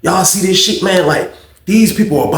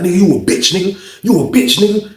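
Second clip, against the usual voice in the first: higher-pitched mock taunting; retold taunt; 5 semitones higher than usual. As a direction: imitate an inmate throwing insults. Acted quarrel between inmates.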